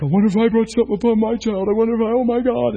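high, fast, fretful mother's voice; anxious mother. Retold or imitated. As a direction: panicky worried parent. Worried parent voiced in sermon.

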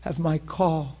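lightly voiced God, almost a whisper; God's hushed voice. God quietly tells Dan his words, in a soft whisper. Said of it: "He said".

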